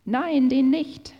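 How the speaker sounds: loud, high, drawn-out cry of a crowd; shouted refusal. A narrator's reading. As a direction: shout it back slowly, as a defiant crowd. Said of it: "schrien sie zurück".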